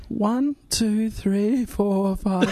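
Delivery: attempting to drop the voice low; trying a deep voice. Shown as a demonstration. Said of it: "Do you think I should really try?".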